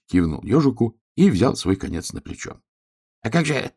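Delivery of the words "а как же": high, halting, faltering question; barely getting words out. A narrator's reading. Hedgehog pointing up at the empty sky, high faltering voice. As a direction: stammer it out with gaps, high-pitched. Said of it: "еле выговорил ежик".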